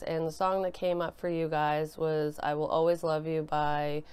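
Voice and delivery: ordinary delivery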